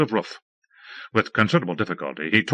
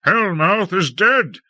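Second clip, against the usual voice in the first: slow, high, loud wail; anguished cry; 10 semitones higher, 4 dB louder, slower than usual. A narrator's reading. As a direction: cry it out in despair. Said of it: "cried Lord Fayed".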